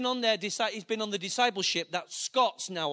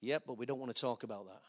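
put-on hushed boy; 10 semitones lower, 10 dB quieter, faster than usual. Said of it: "he went like, he went".

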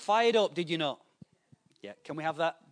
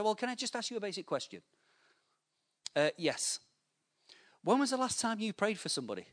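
pointed question; 6 semitones higher than usual. Retold or imitated.

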